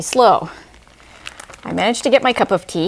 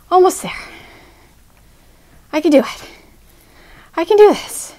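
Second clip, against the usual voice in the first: self-encouraging; 10 semitones higher, 4 dB louder than usual. Real, not acted. Straining to finish crawl.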